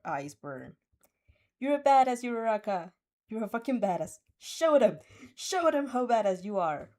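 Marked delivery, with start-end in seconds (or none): 1.6-6.9 loud fierce cheering; cheering shout. Acted. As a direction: yell encouragement at the fighter. Cheering Uraraka from stands.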